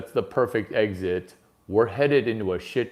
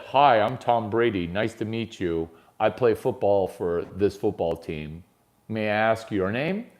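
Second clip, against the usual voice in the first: polite intro demo. Shown as a demonstration. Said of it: "Don't do that".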